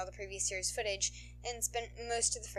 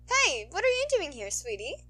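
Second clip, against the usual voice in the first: higher, louder, sweet-toned heroine voice; sultry heroine; 9 semitones higher, 9 dB louder than usual.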